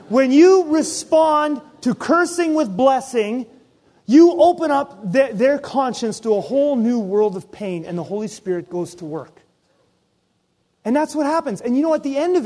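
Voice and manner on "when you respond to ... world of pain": slower, louder, higher restatement; slow emphatic repeat. Shown as a demonstration. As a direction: drive the key line home word by word. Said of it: "repeated for emphasis".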